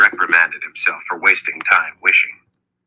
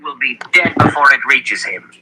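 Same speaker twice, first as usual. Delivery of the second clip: raised-pitch elder's warning; urgent warning; 6 semitones higher than usual. A narrator's reading. Zed warning Richard the sword would fail, urgent warning. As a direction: warn him with pitch lifted.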